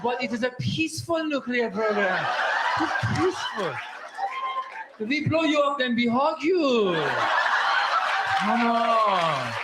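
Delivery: put-on drawn-out, placating Iranian accent. Comedian plays sneaky Iranian excusing nuclear program, drawn-out Iranian accent. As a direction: soothe them in a slow Iranian accent.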